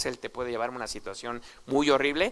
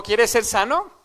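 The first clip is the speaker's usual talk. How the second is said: emphatic question; 7 semitones higher, 6 dB louder, slower than usual. Retold or imitated. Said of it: "Pues le dijo".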